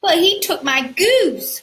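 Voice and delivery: put-on high, loud childish complaint; whiny giant. Giant complaining to his mama, high whine. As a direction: whine it like a wronged kid. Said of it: "cried the giant".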